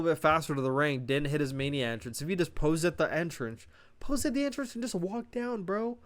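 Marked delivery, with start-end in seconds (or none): 4.3-6.0 exasperated rant. Real, not acted. Exasperated rant about entrances.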